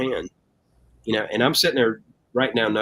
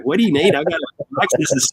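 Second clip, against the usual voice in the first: higher, joking brag; playful boast in a pitched-up voice; mock cocky reply; 5 semitones higher than usual. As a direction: toss it off like a cocky kid. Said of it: "I was like".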